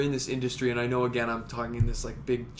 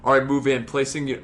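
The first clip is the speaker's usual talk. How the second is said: barking tactical callouts; 5 dB louder than usual. Retold or imitated.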